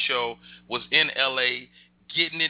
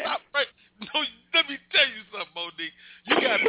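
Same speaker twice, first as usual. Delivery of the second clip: high excited protest; 10 semitones higher, faster than usual. Real, not acted. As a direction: yelp it out in disbelief. Friend teases his age.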